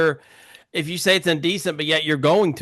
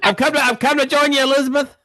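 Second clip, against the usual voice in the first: put-on dying old man; 10 semitones higher, 3 dB louder, faster than usual. Mock dying joke.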